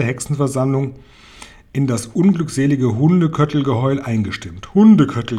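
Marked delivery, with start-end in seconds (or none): 4.7-5.4 loud, higher witch squawk; loud chorus-like cry; screeching. A narrator's reading. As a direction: screech it out with a punch of volume. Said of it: "kreischten sie".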